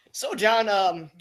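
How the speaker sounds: cop impression. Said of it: "the cop".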